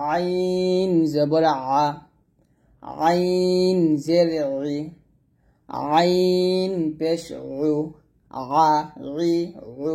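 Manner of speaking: slow, drawn-out আইন squeezed in the throat; pressed ayn. Shown as a demonstration. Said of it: "আইন রে চাপ দিয়ে বলবেন". (আইন গলায় চাপ দিয়ে)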